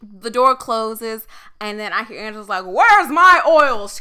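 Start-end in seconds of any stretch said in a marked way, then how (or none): 2.7-4.0 high, loud, stretched-out call; imitated holler. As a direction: imitate the boss hollering for missing supplies. Angela calls out for her oils.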